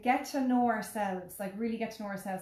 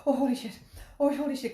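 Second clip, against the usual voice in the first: mock terror; 4 semitones higher, 5 dB louder than usual. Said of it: "And I'm".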